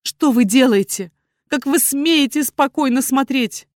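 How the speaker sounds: angry. A narrator's reading. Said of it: "злобно глянула на герцога".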